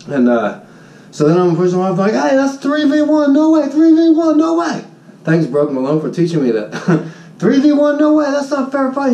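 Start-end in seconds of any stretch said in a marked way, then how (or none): 2.1-4.8 retold outraged yell. Shouting at attackers. 7.4-9.1 retold outraged yell. Shouting at attackers.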